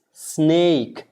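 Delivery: SNAKE with a clear long A, as in "ay"; model pronunciation. Shown as a demonstration. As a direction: say snake carefully, long AY vowel. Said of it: "hear exactly how I am pronouncing".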